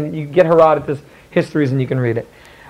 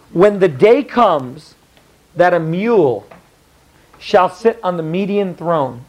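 slow, solemn oracle reading; slower than usual. Shown as a demonstration. The teacher reads the oracle to the class, slow and solemn. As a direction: intone it like a prophecy. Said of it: "He says this. See where the italics is".

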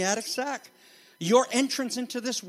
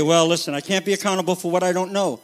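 objecting listener; 5 dB louder, faster than usual. Pretend. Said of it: "You say".

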